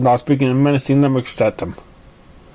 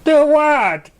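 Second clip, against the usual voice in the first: high, louder, playfully innocent; Pinkie innocence; 13 semitones higher, 4 dB louder than usual. A narrator's reading. Pinkie Pie answering startled Apple Bloom, high and innocent. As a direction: chirp it like you did nothing.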